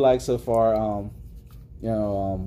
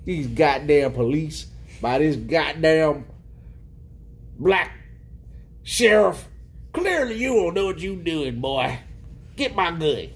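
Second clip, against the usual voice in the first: angry Billy Earl. Retold or imitated. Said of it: "He was like".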